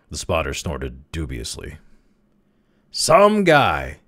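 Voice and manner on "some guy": high, booming jeer; loud declaration. A narrator's reading. Spotter denounces Crawley to the crowd, loud. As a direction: declare it loudly to the whole crowd. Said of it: "he declared loudly".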